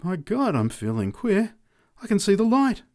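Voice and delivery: high exclamations, dipping midway; drunken announcement. A narrator's reading. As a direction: announce a revelation to bystanders. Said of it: "announced the drunk".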